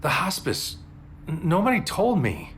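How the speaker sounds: high, breathless, half-whispered shock; barely believing she's really there; a whisper of astonishment; stunned disbelief. Acted. Stunned lover seeing her awake.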